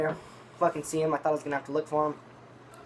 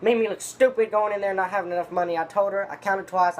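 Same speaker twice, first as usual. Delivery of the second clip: raised, aggrieved mock rant; tripping out; 5 semitones higher, 4 dB louder than usual. Eugene complaining about being short of money, imitated tripping out. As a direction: retell his heated complaint, higher and louder. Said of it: "he's, he's tripping out".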